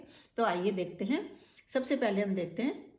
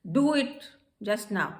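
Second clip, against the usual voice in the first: commanding; 4 dB louder, much slower than usual. Shown as a demonstration. Teacher shows how a leader gives an order, commanding. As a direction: order it like a master. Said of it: "एक leader की तरह, एक master की तरह".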